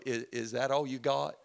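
laughing, cocky taunt; mock the weak spanking; defiant kid. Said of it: "he'd look at you and go".

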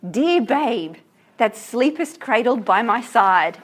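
slow, tender verse reading; poem reading. Acted. Teacher reading the father's address to his baby, slow recital. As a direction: linger on the words to the child. Reads poem aloud to class.

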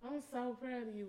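laughing through the words; proud and cracking up as she says it. Real, not acted. Teasing pride at friend's new job.

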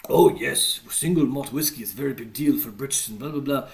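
hammed-up British accent, trailing off; attempted British accent. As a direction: imitate a Brit with a rough accent. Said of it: "trying to do my British accent".

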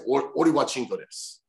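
friend coaching. Retold or imitated. Retelling how his friend taught him the phrase, put-on coach voice. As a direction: imitate a friend feeding a phrase. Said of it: "so he's like".

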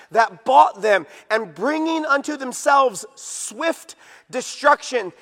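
measured proclamation with weighted key words; emphatic scripture reading. Real, not acted. Preacher reading Peter's warning of false teachers, emphatic. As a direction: read the verse out as a solemn warning.

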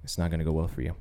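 low, soft, measured retold voice; very calm. Voice from a vision warning about a bitter heart, very calmly. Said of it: "the voice saying very calmly".

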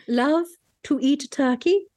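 slow, overdone dramatic recital; dramatic reading. Pretend. Host mocking the song with a dramatic reading. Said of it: "dramatic readings of lyrics".

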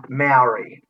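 Maori drawn out the everyday Australian way; slow, anglicised "Maori"; anglicised pronunciation. Retold or imitated. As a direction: say Maori with a plain Aussie "mow-ree". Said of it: "likes to say it the right way now".

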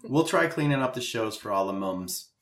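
mock British-sounding accent on "mums"; half-hearted British accent; bad accent. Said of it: "You had a bad accent".

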